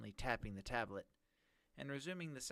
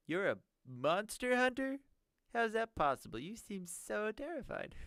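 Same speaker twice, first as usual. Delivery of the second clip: villain voice; 11 semitones higher, 5 dB louder than usual. Acted. GM voices villain mocking Anthony.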